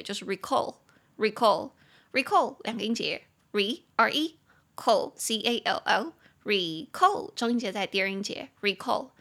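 slow "recall" stressed on "call"; pronunciation drill. Shown as a demonstration. Teacher drilling students on "recall", stress on the second syllable.

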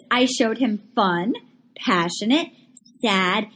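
mock-solemn self-description; mock-earnest imitation. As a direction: imitate her, pausing grandly between each word. Mocking a contestant's list.

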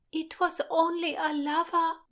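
high, plaintive mew. A narrator's reading. Christina laments the lover, mewing. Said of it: "mewed Christina".

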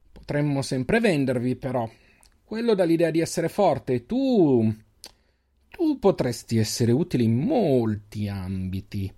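slow, oily leering tone; slimy voice. Acted. Extris leader leering at the huntress, slow slimy voice. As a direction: leer at her, slow and slimy. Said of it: "aggiunse con voce viscida".

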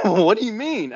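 imitating a baffled buddy; puzzled friend. Friend's puzzled reply acted out.

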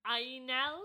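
"Ainel" said as EYE-nel with a light rise; Welsh pronunciation. Shown as a demonstration. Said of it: "it said, like".

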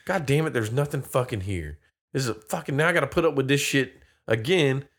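lightly acted weary resignation; mock defeat. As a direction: imitate a beaten man's grumbling. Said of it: "the look of defeat on his face".

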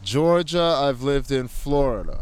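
muffled behind a face mask; through a face mask. Real, not acted. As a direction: talk through a cloth mask. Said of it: "Please excuse the mask muffling".

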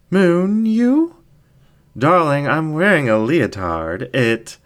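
high, loud, teasing fox voice; scoffing incubus ringmaster. Acted. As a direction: toss it off with a playful scoff. Ringmaster reacts.

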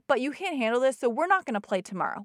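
firm, aggravated parent, lightly acted. Mom cancels tomorrow's game for her son, mildly aggravated. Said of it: "getting aggravated and saying".

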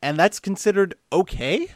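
lightly put-on listener voice with swooping tune; Colt Burr. Co-host reading a listener's question, light impression. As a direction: read it out as a mild impersonation of a confused fan. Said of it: "I'll do my real Colt Burr impression".

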